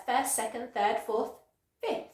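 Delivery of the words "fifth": FIFTH said as "fith", middle F dropped; silent middle F. Shown as a demonstration. Teacher shows an ordinal number, silent middle F. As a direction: say "fifth" without its second F. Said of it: "that F sound is completely silent".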